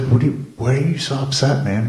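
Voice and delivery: playing her own puzzled alarm at the boy; retold exasperated question. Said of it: "And I'm just like".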